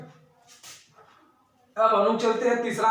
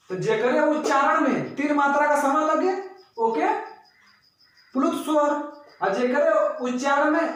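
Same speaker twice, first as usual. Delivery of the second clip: higher, animated Bhojpuri telling; Bhojpuri explanation; 5 semitones higher than usual. Shown as a demonstration. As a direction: press the point home in Bhojpuri. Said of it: "अब तो समझी गल बा लोग भैया". (ऊँचे स्वर में भोजपुरी व्याख्या)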